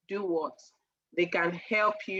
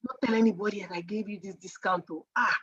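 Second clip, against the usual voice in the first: confidential sales whisper; faster than usual. Retold or imitated.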